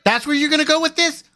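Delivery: high-pitched, appalled questioning; incredulous and heated; indignant disbelief. Real, not acted. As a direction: challenge them as if you cannot believe it. Disbelief at talk of kids.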